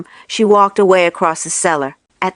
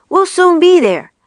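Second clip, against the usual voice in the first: shouted; 9 semitones higher, 4 dB louder than usual. A narrator's reading. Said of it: "shouted Mister Fox".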